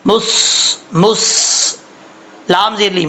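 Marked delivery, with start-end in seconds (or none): 0.0-1.8 مس with a heavy emphatic held s; careful isolated syllable, repeated; full, heavy saad. Shown as a demonstration. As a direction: hold the thick s of مس. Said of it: "پر پڑھا جائے گا".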